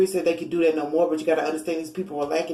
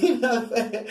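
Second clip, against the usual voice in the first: laughing; 4 semitones higher than usual. Real, not acted. Laughing at her own joke.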